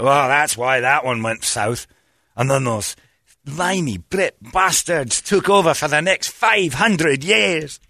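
slow, drawn-out Scottish bitterness; hammed-up aggrieved Scot; mock Scottish grievance. Scot blaming the English for centuries, mock-bitter Scottish accent.

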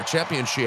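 "Championship" said with no P, soft and trailing off; announcer pronunciation without P. Retold or imitated. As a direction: mimic the announcer, dropping the P in "Championship". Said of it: "there's no P there either".

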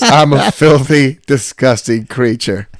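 slow, high, drawn-out lament; hammed-up shameful confession; self-loathing kid. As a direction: wallow in mock disgust at yourself. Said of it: "He goes".

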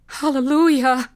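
high-pitched exultant cry; jubilant shout. A narrator's reading. Revived boys leap up rejoicing, jubilant high shout. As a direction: shout it out in praise. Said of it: "they shouted".

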